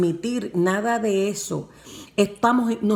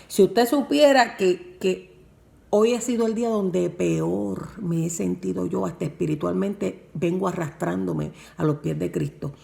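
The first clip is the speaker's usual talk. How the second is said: rising emphatic confession. Retold or imitated. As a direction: push the second supiera out with feeling. Telling pastor her weak state.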